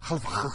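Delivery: exaggerated, long-held "Alvarez"; mock-correct pronunciation of Alvarez. Shown as a demonstration. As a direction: stretch "Alvarez" long after a quick lead-in. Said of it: "je pense que ça se prononce".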